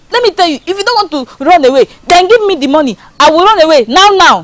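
urgent demand. Acted. Amaka demanding money from chief to run away, urgent. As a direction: press hard for what is needed to flee.

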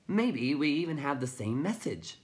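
high, loud little creature; chirping. A narrator's reading. Tiny suggests a shared message, high chirp.

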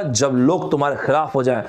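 a hint of a grave movie hero; Abhishek Bachchan dialogue. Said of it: "Abhishek Bachchan साहब ने एक line बोला".

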